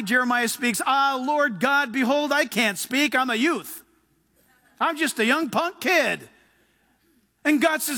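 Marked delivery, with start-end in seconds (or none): 0.9-6.3 slow, drawn-out excuse; reluctant protest. Acted. Jeremiah telling God he is a youth, slow reluctant protest. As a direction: stretch out the objection, mildly pleading.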